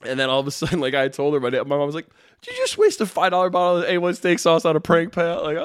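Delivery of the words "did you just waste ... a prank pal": retold scolding. Retold mother scolding him.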